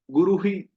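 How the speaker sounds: गुरुहि ending in "hi"; wrong visarga. Shown as a demonstration. Teacher showing a wrong ending. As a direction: say it wrongly as "guru-hi". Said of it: "ऐसा नहीं".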